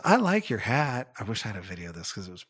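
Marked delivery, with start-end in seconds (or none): 0.0-1.1 put-on higher-pitched, drawn-out child's compliment; imitated sweet child. Boy to lady with the blinky hat, sweetly imitated. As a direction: mimic a sweet kid's compliment. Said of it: "he looked at her and he goes".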